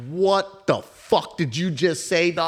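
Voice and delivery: retold outraged disbelief. Break room's outraged reaction, retold.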